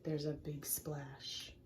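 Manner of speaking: slow, hushed whisper; hushed dramatic whisper; suspense whisper. A narrator's reading. Suspense in storytelling.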